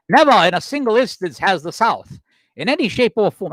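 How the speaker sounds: lightly put-on Southern accent; attempted Southern accent. Host quoting an 1860 Charleston newspaper, attempting a Southern accent. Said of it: "I can't do a Southern accent".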